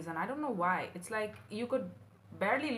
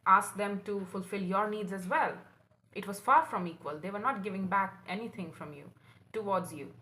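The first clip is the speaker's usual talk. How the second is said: ordinary talk, nothing marked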